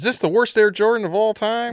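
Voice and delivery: put-on country twang, very high and loud. Repeating for the hosts how he opened his vertical video, with a little country twang. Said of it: "you put a little country twang on it".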